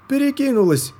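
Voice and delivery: very high, loud alarm cry; yelling the fire has jumped; панический крик; panicked shout. A narrator's reading. Helper yells during surgery.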